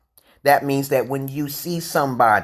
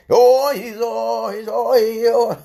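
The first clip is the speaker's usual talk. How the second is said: high laughing squeal; 9 semitones higher, 4 dB louder, slower than usual. Real, not acted. Squealing laughter at own joke.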